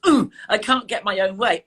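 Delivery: a touch of petulant frustration; mild frustration. Acted. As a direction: act out a small frustrated "ooh". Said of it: "that's frustrating".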